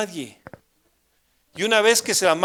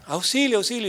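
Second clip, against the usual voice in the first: higher-pitched mock yell for help; retold cry for help; 6 semitones higher than usual. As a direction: call for help, held back. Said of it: "Y comencé a gritar". (grito de auxilio imitado)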